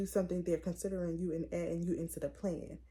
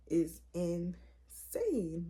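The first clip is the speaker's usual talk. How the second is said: whisper; much slower than usual. Real, not acted. Whispered punchline.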